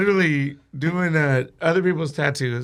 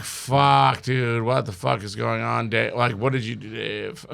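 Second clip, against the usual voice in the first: hushed dread; 5 semitones lower than usual. Retold or imitated. Stuck beside gun, asks Dave.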